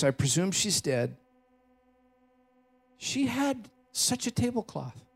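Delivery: gentle, lightly voiced European accent; soft European accent. Watch repairman remembering his wife, softly in a European accent. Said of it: "in his soft European accent".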